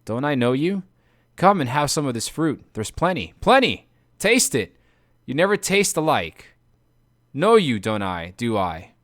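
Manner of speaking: drowsy slurring voice; slurred, dazed speech. Acted. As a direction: slur the words like a drugged man. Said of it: "his words slurred a little when he said".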